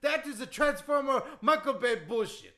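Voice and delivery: put-on indignant accented wrestler rant; Iron Sheik. Wrestler disputing history with the host, indignant accented rant. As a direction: complain in broken English. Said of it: "that Iron Sheik impression".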